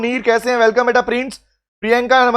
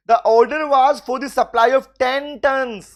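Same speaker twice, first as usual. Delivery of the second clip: slow question reading; much slower than usual. Shown as a demonstration. Teacher reads exam question aloud.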